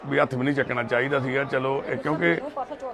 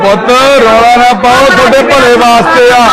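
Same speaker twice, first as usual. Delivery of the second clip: loud coaxing; 9 semitones higher, 15 dB louder than usual. Real, not acted. Worker loudly coaxes the young men that it is for their own good. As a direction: coax them at full voice.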